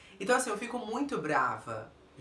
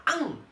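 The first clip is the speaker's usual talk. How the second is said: sudden high, loud snapping "am!"; mock lunge to bite; attack noise; 6 semitones higher, 5 dB louder than usual. Shown as a demonstration. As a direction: pounce with a biting noise. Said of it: "eu fico numa posição de ataque".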